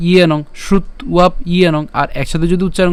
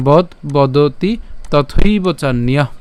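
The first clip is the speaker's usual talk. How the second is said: slow recitation; much slower than usual. Shown as a demonstration. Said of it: "তাহলে আশ্চর্য".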